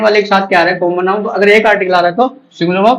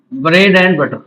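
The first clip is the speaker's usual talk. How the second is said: drawn-out dictation, slightly lower; dictating while writing; 4 semitones lower, much slower than usual. Real, not acted. Teacher writes word pairs for students, drawn-out dictation. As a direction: stretch the words out for writing.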